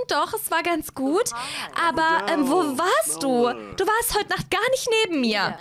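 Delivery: eine etwas höhere, gezierte Hazel-Stimme; Hazel voiced. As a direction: spiel Hazel leicht höher, kokett. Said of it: "Hazel zu spielen ist so anstrengend". (Hazel, leicht höher gesprochen, schwärmt Edgar vor)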